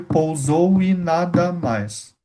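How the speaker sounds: slowly scanning the words "pousou e nada mais" syllable by syllable; teacher counts the syllables of the last verse aloud; slow scansion. Shown as a demonstration. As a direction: stretch the line out to count its syllables. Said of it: "Deu sete".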